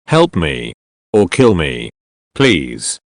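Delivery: low, weak plea from a broken man; a hint of a beaten captive begging to die. A narrator's reading. Burnt captive begging for death.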